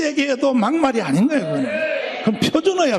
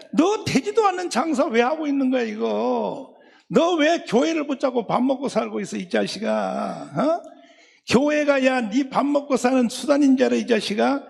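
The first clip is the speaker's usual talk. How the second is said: rapid-fire challenge, dragging out the closing insult; scolding rebuke; 2 semitones higher than usual. Acted. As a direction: demonstrate an exasperated pastor's telling-off. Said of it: "이럴 때 욕하는 거야".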